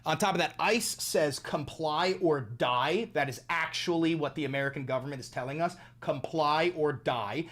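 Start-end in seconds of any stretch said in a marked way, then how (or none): 1.4-3.1 menacing slogan. Retold or imitated. Menacing ICE slogan, slowed. 6.0-7.5 menacing slogan. Retold or imitated. Menacing ICE slogan repeated.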